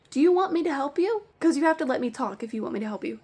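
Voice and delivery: loud, high opening question, then a fast follow-up; exasperated confrontation. Retold or imitated. Store manager to a yelling caller, loud and exasperated. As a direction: cut in forcefully on someone who won't listen.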